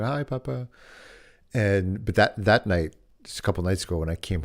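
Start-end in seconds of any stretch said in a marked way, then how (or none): 0.0-0.7 put-on kid's voice. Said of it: "And they're like".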